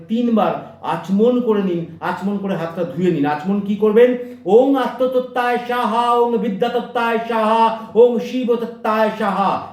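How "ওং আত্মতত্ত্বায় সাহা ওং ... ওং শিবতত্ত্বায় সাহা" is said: chanted sacred words, a little raised; mantra recitation. Shown as a demonstration. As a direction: intone the mantra devoutly. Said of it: "এই বলে আচমন করে নিন". (মন্ত্র উচ্চারণ)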